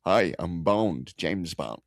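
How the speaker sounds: lightly voiced suave spy, slow start; understated low, slow secret-agent intro; James Bond. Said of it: "do a good British accent".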